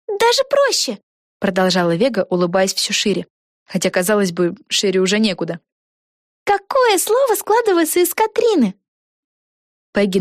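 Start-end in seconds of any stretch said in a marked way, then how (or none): 0.1-1.0 put-on much higher, eager girl voice; excited young witch thinking aloud; Vega's voice. A narrator's reading. Вега. 6.4-8.7 put-on much higher, eager girl voice; excited young witch thinking aloud; Vega's voice. A narrator's reading. Вега.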